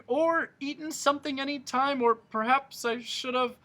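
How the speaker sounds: hammed-up fretting humbug. A narrator's reading. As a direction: babble on in a muddle. Humbug babbling on.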